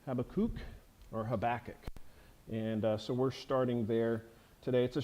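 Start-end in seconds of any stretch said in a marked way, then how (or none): 0.1-0.6 Habakkuk ending in a long oo, HAB-uh-kook; Habakkuk with a full "kook" last syllable; alternative pronunciation. Shown as a demonstration. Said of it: "it's also pronounced". 1.2-1.8 Habakkuk stressed on the middle syllable, huh-BACK-uk; Habakkuk with the weight on BACK; second alternative pronunciation. Shown as a demonstration. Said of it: "it's also pronounced".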